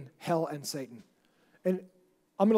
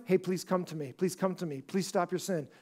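soft pleading; 4 dB quieter than usual. Acted. God pleading with the sinner.

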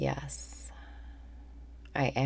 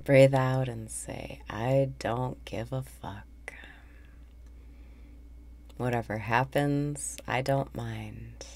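calm meditation leader, phrases spaced out; guided meditation. Real, not acted. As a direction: guide listeners breath by breath, unhurried. Leads a guided breathing meditation.

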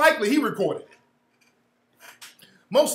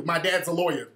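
mock quote; 5 semitones lower, 4 dB quieter than usual.

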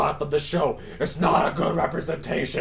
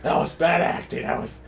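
loud, high, defensive protesting; flustered denial; 4 semitones higher, 7 dB louder than usual. Real, not acted. Player denying to viewers he was scared, flustered and loud. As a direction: insist hard, rattled from the scare. Defensive after being startled.

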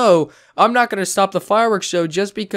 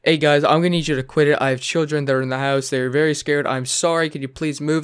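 polite request; 2 semitones lower than usual. Retold or imitated. Showing the woman how to ask kids politely. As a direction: ask them nicely and calmly. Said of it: "Like, literally walk up, say".

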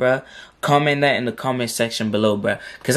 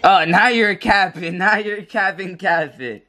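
laughing protest; 6 semitones higher, slower than usual. Real, not acted. Friend teasing his height.

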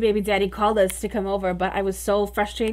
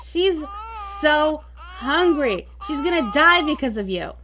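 exasperated scolding. Real, not acted. Scolding character over starving child.

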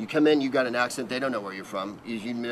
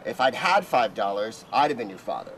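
slow comeback insult. Retold or imitated. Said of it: "I'd say".

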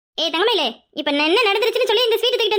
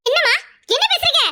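shocked; 9 semitones higher than usual. Acted. Mother shocked by accusation.

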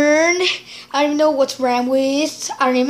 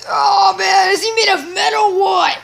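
amazed; 6 semitones higher, 3 dB louder than usual. Real, not acted. Amazed at a metal figure.

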